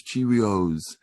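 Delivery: CHEERIOS in one connected go; a kid trying the whole word CHEERIOS; child's longer attempt. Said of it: "he goes a little bit longer".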